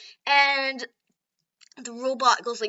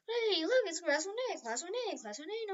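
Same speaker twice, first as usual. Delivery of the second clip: high, eager, fading voice; excited high voice; 7 semitones higher than usual. Retold or imitated. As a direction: point it out excitedly. Deku excitedly finding class.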